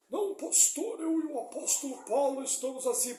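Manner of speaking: high whiny voice of a believer making excuses; mock congregant.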